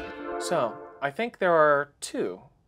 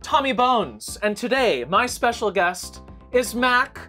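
sassy drag queen; 5 semitones higher than usual. Acted. Sassy show host intro.

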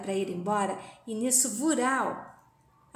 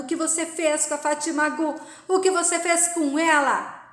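mock yell; 4 semitones higher, 4 dB louder than usual. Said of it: "vai gritando".

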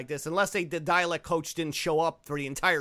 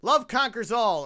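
grand announcement; 4 semitones higher, 5 dB louder, slower than usual. Acted. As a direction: open high, loud and slow, then drop away. Grand opening line, later restarted.

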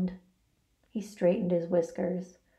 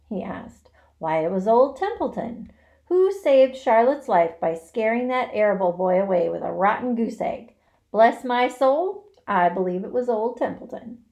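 smug boasting; 2 semitones higher, 5 dB louder than usual. Acted. Rat boasts sarcastically.

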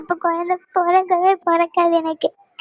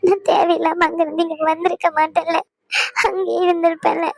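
tearful reproach; crying. Acted. Wife asks husband why he hid it, crying. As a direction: reproach through sobs. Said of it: "அழுகாத".

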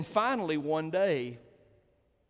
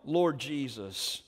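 church's shout; 3 dB louder, slower than usual. Acted. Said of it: "the church shouts".

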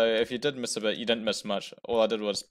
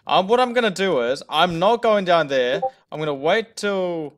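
adrenaline shakes; 7 semitones higher, 8 dB louder than usual. Real, not acted. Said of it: "My heart is racing".

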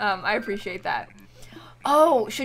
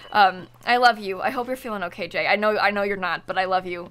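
tender; 5 semitones lower than usual. Real, not acted. Streamer gently comforts a viewer going through something bad. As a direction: comfort a friend who is hurting.

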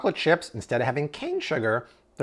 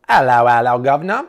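playful greeting; 8 dB louder than usual. Acted. Greets the cookie package playfully.

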